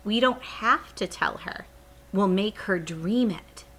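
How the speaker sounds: eager. Acted. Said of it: "Sophie said excitedly".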